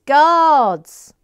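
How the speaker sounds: loud excited cry; excited shout. Acted. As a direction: call it out with glee. Exclaims a book title.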